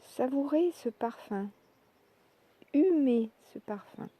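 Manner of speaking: normal talking voice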